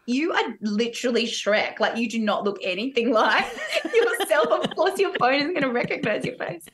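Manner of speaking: incredulous retold comeback breaking into laughter; laughing retort. Cast member teasing costumed Shrek about his phone, laughing incredulously. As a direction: tease through laughter, pitch climbing as it goes.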